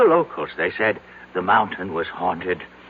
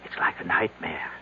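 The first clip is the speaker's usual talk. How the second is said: hushed whisper; 4 semitones lower, 5 dB quieter than usual. Acted. Recalling the terror on the mountain.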